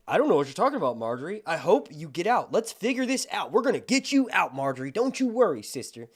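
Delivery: putting on concern. Retold or imitated. Cersei reassuring jailed Marjorie, feigned concern. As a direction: play the overly concerned sister. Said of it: "She's very much playing the role of".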